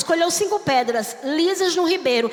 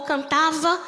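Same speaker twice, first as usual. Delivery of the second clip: normal talking voice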